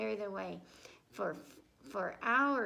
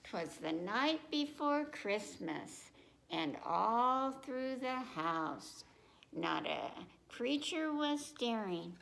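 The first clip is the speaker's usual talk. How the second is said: slow, gentle read-aloud voice; lilting picture-book narration; reading to children; 2 semitones lower than usual. Acted. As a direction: read it like storytime for little ones.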